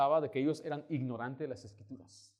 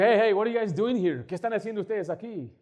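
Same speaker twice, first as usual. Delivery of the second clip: high, loud mock call-out; confrontational challenge; 6 semitones higher, 7 dB louder than usual. American confronting the evangelists, loud retold challenge. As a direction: challenge intruders loudly.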